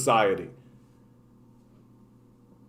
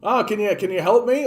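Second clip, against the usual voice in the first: pleading citizen; 6 semitones higher than usual. Retold or imitated. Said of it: "have people be like".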